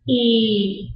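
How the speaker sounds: "E" held as a long ee; long E sound. Shown as a demonstration. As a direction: stretch "E" into a long, steady ee. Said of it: "That E is gonna be a long E".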